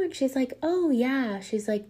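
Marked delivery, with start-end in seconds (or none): 0.6-1.4 lightly imitated child, pitched up; a hint of an innocent girl; sweet little girl. Girl reassuring a curious woman, lightly imitated sweet voice. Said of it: "the sweetest, softest voice".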